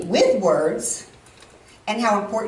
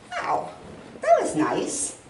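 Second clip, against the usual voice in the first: touched reaction; 3 dB quieter, slower than usual. Retold or imitated. Touched by the cousin's message.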